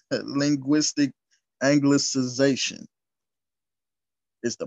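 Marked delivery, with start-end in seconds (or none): 0.1-2.9 slow, deliberate repeat after a chuckle; measured and firm, carefully spaced. Real, not acted. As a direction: take the long term slowly, word by word. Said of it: "I had to say that slow".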